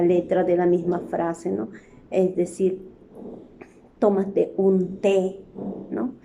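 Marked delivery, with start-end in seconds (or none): 4.0-5.4 slow, each word laid out; Tómate un té read slowly; slow example. Shown as a demonstration. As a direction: read it slowly so the repeated té is heard. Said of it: "Tres veces ha utilizado en una oración".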